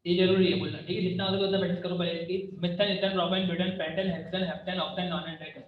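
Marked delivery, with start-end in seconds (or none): 2.6-5.6 fast recital. Shown as a demonstration. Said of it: "तो ऐसे फटाफट से आपको इसको बोलना है".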